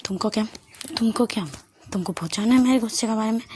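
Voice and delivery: ordinary delivery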